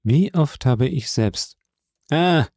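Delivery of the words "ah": interrupting cry. A narrator's reading. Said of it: "rief Morell den Grafen unterbrechend".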